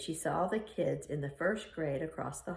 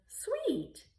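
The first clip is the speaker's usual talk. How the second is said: put-on little girl voice. Little girl answers grandma.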